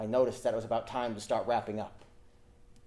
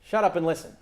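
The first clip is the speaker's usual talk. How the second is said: sharp command; 5 semitones higher, 6 dB louder than usual. Acted. Hotline motto barked at audience.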